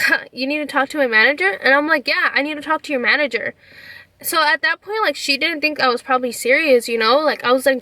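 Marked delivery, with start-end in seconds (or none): 0.1-1.5 quick, doubting echo of a demand; imitating a sceptical clerk; mock incredulous question. 2.1-3.6 mildly firm, matter-of-fact confirmation; understated insistent reply; retold insistence. Retold firm answer to clerk.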